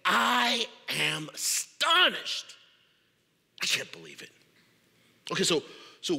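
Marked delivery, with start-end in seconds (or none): 0.1-4.3 astonished rebuke. Acted. Paul scolding the Galatians, stunned and sharp. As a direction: stretch the astonishment. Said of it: "hot and bothered right now".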